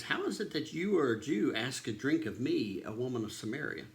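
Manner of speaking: a touch of disbelief, pitch jumping early then settling; shocked. Retold or imitated. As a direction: lightly act out a taken-aback woman. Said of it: "the Samaritan woman was shocked".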